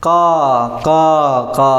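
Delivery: long, separated caws; teacher's demonstration of crow cawing; imitated crow caw. Shown as a demonstration. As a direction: mimic a crow calling. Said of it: "എന്ന് ശബ്ദം പറയുന്നുണ്ടല്ലേ?".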